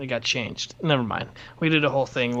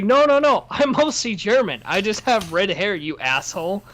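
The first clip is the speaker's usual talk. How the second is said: higher-pitched, exasperated retold denial; mock indignant protest; 4 semitones higher than usual. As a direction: protest indignantly, imitating an annoyed podcaster. Quotes podcaster protesting to chat.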